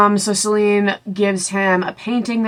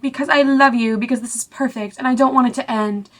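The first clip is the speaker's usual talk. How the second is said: mock tearful; 5 semitones higher than usual. Celine crying during sex.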